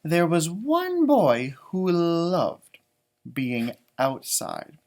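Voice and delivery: measured picture-book reading; storybook reading voice; story narration. A narrator's reading. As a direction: read it out to children, unhurried. Reads the book aloud.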